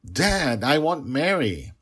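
put-on high, loud little child's plea; pleading child. Small child begs her father for her lost nanny, pleading.

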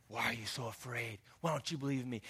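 low, soft disappointed rebuke; stern reprimand. Retold or imitated. Rejected reading of Jesus reprimanding disciples, stern. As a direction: scold them coldly. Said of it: "I don't think this is a".

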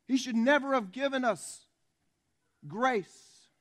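high, loud preaching; loud rant. Real, not acted. Preacher on undeserved grace, loud rant. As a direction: proclaim it forcefully, setting the last word apart. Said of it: "my rather loud rant".

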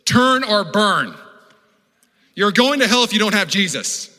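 loud, high hellfire shout; street-corner preacher. Acted. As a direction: belt it out like a roadside hellfire preacher. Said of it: "those people on the side of the roads".

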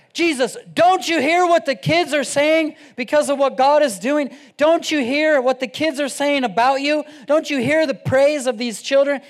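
loud, high-pitched mock outrage; indignant outcry. Preacher voices mad priests confronting Jesus over children, indignant outcry. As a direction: scold as an indignant mob of priests. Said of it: "They're all mad".

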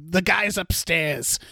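soft, slow impression of a movie character; hushed, drawn-out character voice; impression of the other guy. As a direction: drop the volume and draw it out in character. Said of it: "I'm doing that voice because that's my impression".

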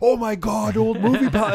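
loud, high, thrilled mock Newfie accent. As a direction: exclaim like an overexcited Newfoundland tourist. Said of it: "that was their Newfie accent".

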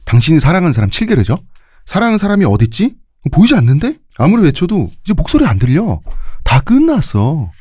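overwrought villain taunt, rising high; stilted old movie melodrama. Retold or imitated. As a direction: ham it up like an old film villain. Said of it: "이거 톤이 그런 톤이 아닌 것 같은데?".

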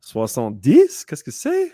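high, baffled student voice; confused kid. Retold or imitated. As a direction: squeak it out like a puzzled kid. Teacher voices confused French students.

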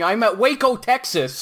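high, excited cartoon hunter, half laughing; hammed-up cartoon hunter impression; Elmer Fudd. Joker imagining a politician as cartoon hunter, high mock voice. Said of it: "could you imagine him going".

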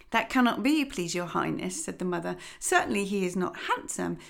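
lightly voiced fussy mother duck; a hint of a weary, busy mother; mildly fretful hen voice. Mother answers the old duck.

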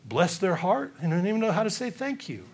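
mock offended gossip. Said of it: "we get upset and we get offended and say".

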